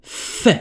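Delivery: isolated F sound, held apart; "F" as a lone phonics sound; F consonant pronounced alone. Shown as a demonstration. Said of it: "هادي se prononce".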